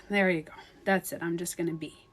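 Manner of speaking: soft, low, resigned self-talk; settling in. Retold or imitated. Meditator settling under a blanket, soft and resigned. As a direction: ease down quietly as you let go.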